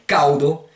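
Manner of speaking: CAUDO with the D clearly sounded before o. Shown as a demonstration. Teacher giving feminine hot, sounded-D pronunciation. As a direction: model caudo as "CAO-do". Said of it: "vous le ferez claquer".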